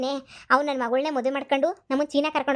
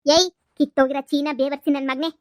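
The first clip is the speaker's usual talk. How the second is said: loud scolding yell at the conman; angry insult; 4 dB louder than usual. Acted. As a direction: bark out the abuse. Mother insults the fake groom.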